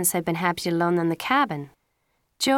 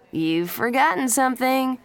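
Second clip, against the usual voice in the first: higher, lifted smiling voice; 7 semitones higher than usual. A narrator's reading. Pacey reminds his friends, smiling. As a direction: tease lightly through a smile. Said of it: "Pacey said, smiling".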